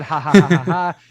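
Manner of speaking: loud burst of real laughter; laughing out loud. Real, not acted. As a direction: crack up mid-read. Laughing while reading the chat.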